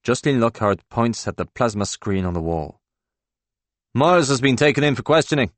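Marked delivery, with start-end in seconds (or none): 3.9-5.5 excited. Acted. Colleague excitedly points at news.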